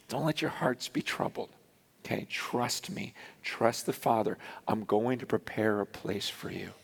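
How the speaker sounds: low, soft, calming voice; reassuring. Retold or imitated. Jesus to his disciples at the Last Supper, reassuring. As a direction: comfort them gently, keeping it low.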